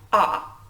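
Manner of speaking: a short open "ah", said on its own; vowel sound demo. Shown as a demonstration. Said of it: "it has one vowel sound".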